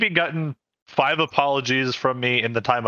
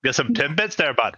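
playful put-on Canadian accent; lightly hammed-up Canadian accent; mock Canadian accent. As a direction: join in as a stereotypical Canadian buddy. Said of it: "throw that accent on words".

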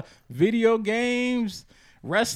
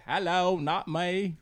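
Impression of a singer; 3 semitones lower, 3 dB quieter, much slower than usual. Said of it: a remark that they got the singer down.

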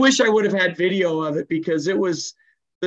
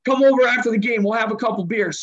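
mock yelling; 4 semitones higher than usual. Coach invites Tommy while faking a fight, mock yell. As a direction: play it like a threat to fool the crowd. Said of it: "we're yelling and screaming".

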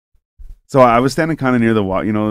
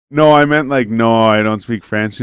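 raised, louder opening, slowing into the explanation; mock exasperated correction; 7 dB louder than usual. Retold correction of a misunderstanding.

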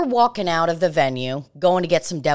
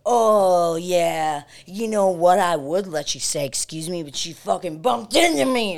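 mock drunken ranting. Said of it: "Losing his fucking mind".

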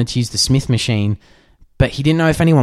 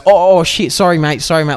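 higher-pitched mock apology; hasty retold apology; 6 semitones higher, 4 dB louder than usual. Gym-goer caught kicking someone's stuff apologises, retold hasty apology. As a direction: play a caught-out mate blurting sorry.

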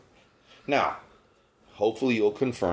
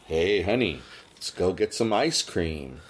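coded invitation; 4 semitones lower than usual. Acted. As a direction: casually propose it with a hidden meaning. Voicing a coded invitation to partner.

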